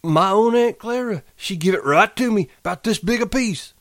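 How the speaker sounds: put-on high, loud, happy childlike; happy and eager. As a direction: gush like a delighted child. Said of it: "he cried happily".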